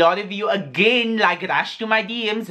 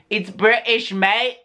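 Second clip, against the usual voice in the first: jokey put-on British accent, slightly higher; a light mock-British turn; 4 semitones higher, slower than usual. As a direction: claim to be British in a playful fake accent. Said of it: "where my accent is from".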